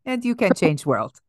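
mock-earnest fake Russian accent; comic Russian alter-ego accent; put-on Russian accent. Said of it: "come up with some kind of accent".

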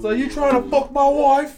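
high, loud mock-English jealous husband; English accent. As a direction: put on an English accent and confront them. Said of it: "gave him an English accent".

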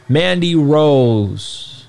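slow drawn-out ring announcer call. Pretend. Announcer-style name call.

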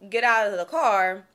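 ordinary talk

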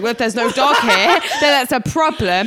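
loud mock-indignant comeback; indignant retort. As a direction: push back loudly, amused at yourself. Retold argument with the bouncer.

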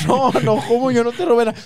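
más agudo y mucho más fuerte, defendiéndose; niégalo todo a gritos; negación a gritos. Retold or imitated. Pleito por el celular. (el muchacho acusado niega el robo gritando)

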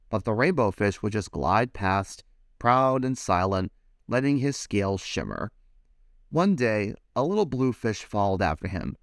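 put-on lively read-aloud for children; animated picture-book reading; storybook narration. A narrator's reading. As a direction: tell it like bedtime story time.

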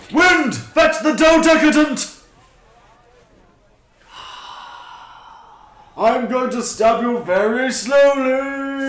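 loud, slow villain threat; menacing threat. Pretend. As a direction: threaten him slowly.

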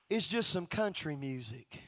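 low, soft mock protest; dismissive objection. Listener downplays country music to preacher, low dismissive murmur. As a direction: drop low and soft to shrug it off.

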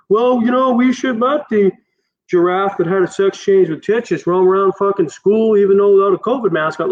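high, preachy mock of a know-it-all. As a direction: parody the self-righteous poster. Mocking preachy Facebook posters.

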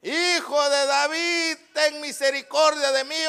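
sustained calling cry. Acted. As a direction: plead aloud for mercy. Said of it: "gritó y dijo".

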